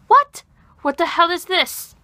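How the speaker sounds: high, loud burst of mock outrage; Star Kid Draco. Cosplayer acting out Draco's "what the hell" moment, high and indignant. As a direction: yelp it in hammed-up disbelief. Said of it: "Star Kid Draco, by the way".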